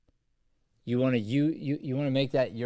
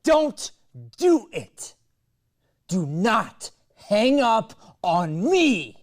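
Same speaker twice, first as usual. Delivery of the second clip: frantic high shout; 8 semitones higher, 9 dB louder, much slower than usual. Shown as a demonstration. Teacher demos the girlfriend begging him not to hang up, shouting. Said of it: "I know that was crazy and weird".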